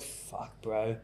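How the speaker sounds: breathy stunned whisper; under the breath, shaken; whispered curse. Retold or imitated. Shocked inner thought after haircut.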